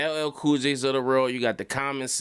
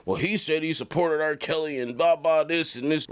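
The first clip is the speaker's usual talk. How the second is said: lightly voiced mock excuse, a bit higher; a hint of a flustered comedian; mock grasping; 3 semitones higher than usual. Andrew grasping at a singer, lightly mocked. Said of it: "you were grasping".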